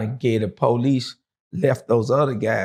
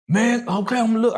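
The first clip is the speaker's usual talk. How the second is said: high, tense okay I'll look; reluctantly going to check; high, jittery okay; nervous agreement; 12 semitones higher, faster than usual. Retold or imitated.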